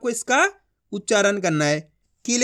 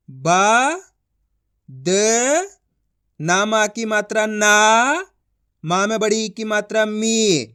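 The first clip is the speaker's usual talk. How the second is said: slow spelling-out, each sound held; one by one; slower than usual. Shown as a demonstration. Teacher reading a word letter by letter, slowly. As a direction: stretch "बा", "द", "ना", "मी" with pauses between. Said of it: "किस तरीके से एक-एक करके".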